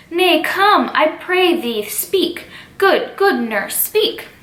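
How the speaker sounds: pleading Juliet. Acted. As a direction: beg her to speak.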